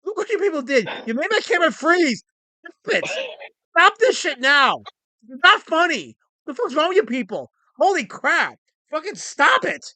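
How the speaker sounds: play-yell at the chat to stop laughing; mock angry scolding. Scolding the chat over camera.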